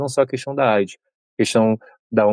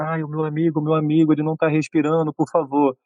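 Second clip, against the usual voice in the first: mock panicked yell; 5 semitones higher than usual. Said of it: "ele vai pro corredor gritando".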